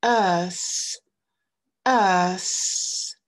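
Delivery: Earth with a voiceless th, tongue between the teeth; long vowel in Earth, then an unvibrated hissed th; th non voisé. Shown as a demonstration. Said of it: "mettre la langue entre les dents". (Earth, langue entre les dents, sans vibration)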